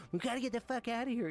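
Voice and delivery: exaggerated high frantic yell, redone for laughs; hammed-up panic. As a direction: overplay the panic while laughing. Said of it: "I'm, like, losing it".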